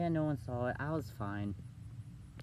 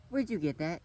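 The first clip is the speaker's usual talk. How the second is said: higher-pitched mock mom demanding an answer; high, accusing retold question; voice going way up; 6 semitones higher, 4 dB louder than usual. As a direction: imitate mom's voice jumping up. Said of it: "her voice instantly goes way up".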